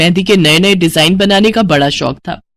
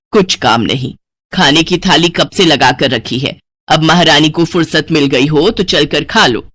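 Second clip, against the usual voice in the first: acted annoyance, lower voice; cross mother; 5 semitones lower than usual. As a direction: scold your daughter with mild sarcasm. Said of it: "Sumitra गुस्से में वहां से चली गई". (नाराज़ माँ का ताना)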